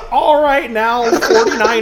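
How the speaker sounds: lightly voiced jittery old miner; a hint of a nervous gold miner; nervous prospector. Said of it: "You sound like a nervous prospector".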